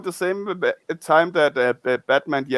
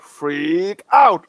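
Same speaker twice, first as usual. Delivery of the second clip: drawn-out, slightly louder catchphrase call; mock yell; 4 dB louder than usual. Shown as a demonstration. Fan demonstrating the hero's transformation cry, mock yell. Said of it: "he have to yell out really loud".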